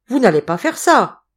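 high, loud incredulous plea; alarmed protest. A narrator's reading. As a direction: call it out, imploring. Mayor pleads with Hubert. (supplication criée)

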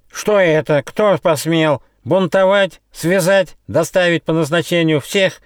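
high, loud outraged yell. A narrator's reading. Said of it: "завопил Ехидна".

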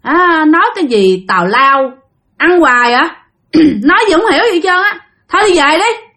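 dismissive retold heckle, climbing in pitch; rude scolding. Insolent boy tells the master to go home, rudely scolding. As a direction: brush him off insolently. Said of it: "Là chửi ông thầy".

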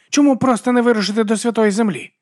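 high, rough voice of a wild werewolf woman; Vigga's voice. Acted. Vigga puzzles over the pilgrims, in a high brash voice.

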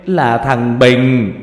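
put-on an old grandmother howling over her dead grandchild; wailing lament. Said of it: "Bà Yên đang dãy đành đạch ngồi khóc".

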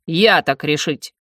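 медленный властный рык; отрежь медленно, как окончательное решение; Арвендел. Acted. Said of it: "вновь зарычал Арвендел". (властно, с рычанием)

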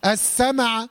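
السمع said "as-sama-a"; wrongly voweled mim. Shown as a demonstration. Teacher shows what not to say, extra vowel in السمع. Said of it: "لا".

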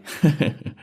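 short sneering chuckle; mocking villain's chuckle; villain's laugh. A narrator's reading.

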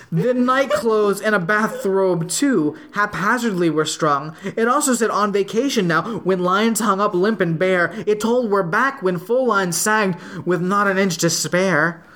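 measured, lilting verse reading; poem recitation. Acted. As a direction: read it out in steady singsong metre. Reads a poem aloud.

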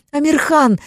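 high, loud desperate cry; wife cries out to husband; crying out his name. Acted. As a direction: call out his name in panic.

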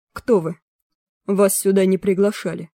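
лёгкий намёк на желчного клерка; сухо, занудно, с раздражением; нудный жёлчный голос. Acted. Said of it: "нудный жёлчный голос". (нудный жёлчный голос)

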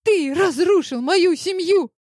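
high accusing shout; кричит в обиде. A narrator's reading. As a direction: yell it at him. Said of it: "закричала она".

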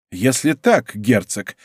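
usual speaking voice

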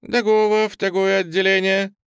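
a greeting with a rolled-back burred r; says g for r. Acted. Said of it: "чуть картавя".

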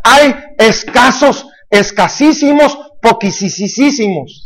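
slow, stretched superlatives, fading at the end; drawn-out emphasis. Real, not acted. Preacher telling the congregation disciples are scarce, slow emphatic drawl. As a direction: spell out the scarcity word by word, slowly.

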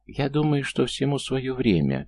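high, thin squeak; squeaky voice. A narrator's reading. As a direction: pipe it up squeakily. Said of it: "пискляво возразила ей Галина".

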